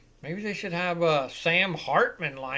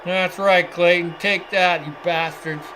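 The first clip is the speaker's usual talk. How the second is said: gloating cheer; 5 dB louder than usual. Real, not acted. Cheering a play on TV.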